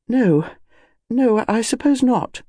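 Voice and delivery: doubtful. Acted. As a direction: concede it slowly, unconvinced. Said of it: "said Missus Bantry doubtfully".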